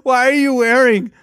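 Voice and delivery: put-on parent questioning a guilty kid; suspicious mom.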